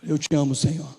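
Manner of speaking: low, soft, humble answer; Peter's humble reply. Acted. Peter answering Jesus softly and humbly. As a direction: answer him humbly and quietly.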